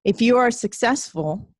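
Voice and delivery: measured poem reading with long pauses; poem recital. Acted. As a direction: recite it line by line, letting each phrase settle.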